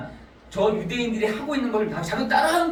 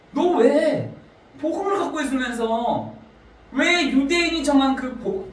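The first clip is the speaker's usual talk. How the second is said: rebuke; 5 semitones higher than usual. Acted. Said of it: "바울이 질책을 하면서 뭐라고 하냐면".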